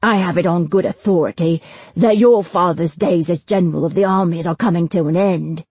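lightly voiced smug jailer, emphatic; menacing bailiff Granger. Jailer warning Destin about his father, mildly menacing. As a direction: deliver the threat with officious relish.

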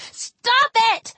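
put-on high-pitched boy's yell; desperate yell. A narrator's reading. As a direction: cry out sharply, pitched high. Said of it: "Felix yelled".

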